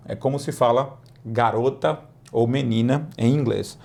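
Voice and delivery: ordinary delivery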